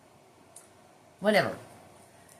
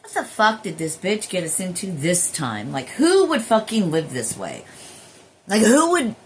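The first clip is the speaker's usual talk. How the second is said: louder, indignant mock rant; exasperated inner voice; 6 dB louder than usual. Imitating her returning self judging the human's life, exasperated. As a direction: scold the life you just woke into. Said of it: "and you're like".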